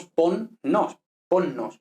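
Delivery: ponnos with a long held n, pon-nos; double consonant. Shown as a demonstration. Teacher shows Spanish geminates, ponnos with held n. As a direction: linger on the nn of ponnos. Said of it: "por ejemplo".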